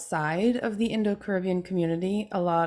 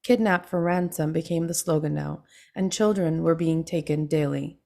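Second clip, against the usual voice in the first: measured, even reading of her own memoir. Acted. Author reading her memoir to a book club, measured and even. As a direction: read the passage aloud to the group.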